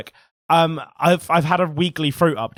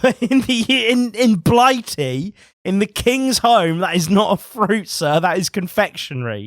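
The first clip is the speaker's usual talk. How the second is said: slow, emphatic mock-pompous objection; mock indignation; 4 semitones higher, 4 dB louder than usual. Objecting to cinnamon roll as fruit, mock indignant. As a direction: play the affronted Briton, slow and loud at first.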